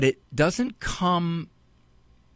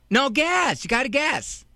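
put-on insistent kid; 8 semitones higher than usual. Kid insisting dad guess.

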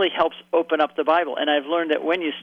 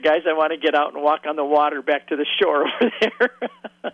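laughing. Retold or imitated. Joking about walking on water.

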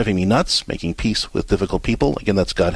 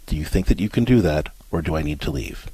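soft, steady offer of a choice, softer; calm firm choice; 5 semitones lower, 3 dB quieter than usual. Shown as a demonstration. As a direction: gently lay out the two options. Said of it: "I want you to look at her and say".

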